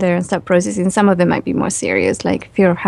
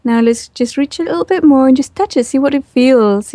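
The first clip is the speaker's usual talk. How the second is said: gentle reassurance; 6 semitones higher than usual. Retold or imitated. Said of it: "I had to do it really gently, say".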